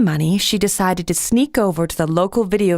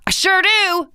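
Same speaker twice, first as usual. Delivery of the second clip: bright chime; 13 semitones higher than usual. A narrator's reading. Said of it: "he chimed".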